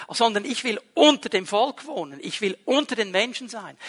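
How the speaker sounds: emphasize "unter" and the people named after it; "unter dem Volk" brought out as the key phrase; stress on the people. Shown as a demonstration. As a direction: lean on "unter dem Volk" and "unter den Menschen". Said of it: "die Betonung liegt beim Volk".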